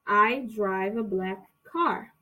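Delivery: "I drive a black car." said slowly, word by word; slow it down for learners; slow, clear "I drive a black car."; slow model sentence. Shown as a demonstration. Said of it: "repetir essa frase".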